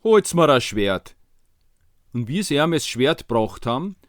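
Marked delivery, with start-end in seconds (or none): 0.0-1.2 loud, slow Viennese king's order; commanding king. Acted. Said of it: "der König hat gesagt".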